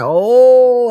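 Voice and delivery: high, startled little oh; sudden squeaky oh. Retold or imitated. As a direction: caught off guard, go up high. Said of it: "I was like".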